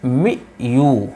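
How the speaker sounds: मी यू spelled out very slowly, mee then yoo; sounding out. Shown as a demonstration. Teacher slowly sounding out each syllable for students. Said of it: "तो M E W".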